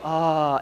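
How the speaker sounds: open, easy "ahh" at normal pitch; demonstrated calming "ah"; relaxing "ah". Shown as a demonstration. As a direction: breathe out a loose "ah". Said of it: "they taught us if you go".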